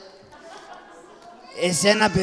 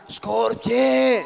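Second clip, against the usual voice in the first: higher, louder drawn-out yell; loud shout; 5 semitones higher, 5 dB louder than usual. Acted. Father and children waking a sleeper, loud shout. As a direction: shout the name to wake him. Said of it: "φωνάξτε δυνατά".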